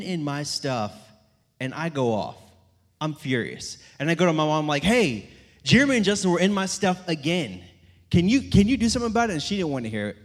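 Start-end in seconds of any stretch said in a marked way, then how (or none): 4.8-9.3 higher, louder, rushed tattling; whiny complaint to mom. Retold or imitated. Older brother tattling to mom, whiny and rushed. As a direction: tattle to mom, fast and pleading.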